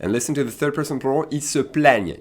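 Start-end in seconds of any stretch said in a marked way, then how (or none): 1.3-2.2 "plaignent" with an open eh; accent grave demonstration. Shown as a demonstration. Teacher showing third person plural, open accent grave sound. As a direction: open the vowel of "plaignent" to è, then ny. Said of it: "You hear an E accent grave now".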